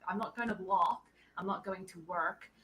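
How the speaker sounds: slow, soft American accent with a hard R in "work"; careful put-on American R. Shown as a demonstration. Australian showing the extra effort, slow American accent. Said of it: "That was American accent was very good".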